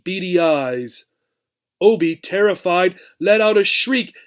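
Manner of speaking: lively storybook reading to a class; reading to children. A narrator's reading. Teacher reading the chapter aloud to her class, expressive storytelling. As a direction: tell it like a picture book for kids.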